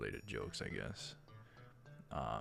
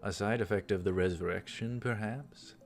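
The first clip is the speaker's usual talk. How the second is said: measured visual-novel read-aloud; story narration; 3 dB louder than usual. Acted. Reads game dialogue aloud.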